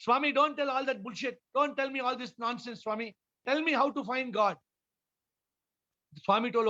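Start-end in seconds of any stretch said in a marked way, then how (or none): 0.0-4.6 higher, impatient demand; a student fed up with his teacher's talk; angry student. Retold or imitated. Student angrily demanding the Swami teach him. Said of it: "The student got angry".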